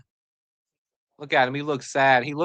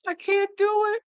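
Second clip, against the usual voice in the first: very high whimpering mock sob voice; hammed-up tearful rookie, squeaky high; mock crying. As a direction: whine it way up high like a kid about to cry. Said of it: "He's like".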